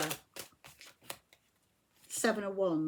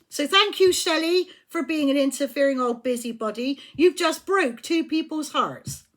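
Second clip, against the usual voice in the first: sarcastic loud thanks; 4 semitones higher, 5 dB louder than usual. Real, not acted.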